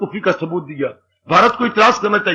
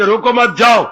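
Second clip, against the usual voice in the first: attach मत to रोको and land on जाओ; मत joined to रोको. Acted. Father's reading of the message, मत joined to रोको. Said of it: "वो मत उधर लगा रहा है".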